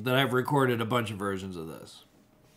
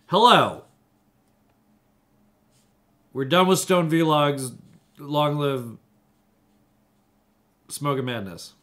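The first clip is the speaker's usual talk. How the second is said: grand announcement; 3 semitones higher, 5 dB louder than usual. Pretend. Grand announcement of new show.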